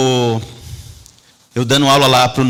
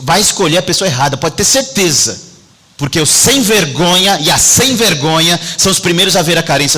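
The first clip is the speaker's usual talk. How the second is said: preaching at full force; 5 semitones higher than usual. Acted. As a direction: build the sermon up and drive it home. (pregação intensa, voz elevada)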